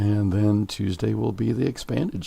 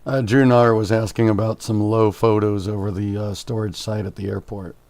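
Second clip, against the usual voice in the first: croaky voice; 5 dB louder than usual. Real, not acted. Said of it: "croaky voice".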